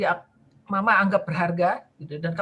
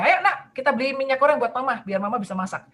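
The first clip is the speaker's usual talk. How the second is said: ajak anak; 3 semitones higher than usual. Retold or imitated. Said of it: "panggil anaknya".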